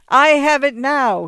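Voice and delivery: high, loud, drawn-out exclamation; triumphant shout. A narrator's reading. Lawyer suddenly knowing whom to give it to, shouting. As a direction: shout it slowly as a sudden brainwave. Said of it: "he fairly shouted".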